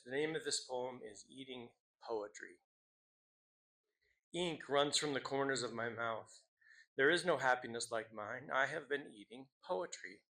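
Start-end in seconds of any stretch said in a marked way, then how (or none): 4.3-8.5 measured recital with pauses between lines; poetry reading. Acted. Teacher opens the slam with a poem, measured recital. 8.5-10.2 voiced, measured line of verse; poetry reading. Teacher reads a poem to students, measured recital.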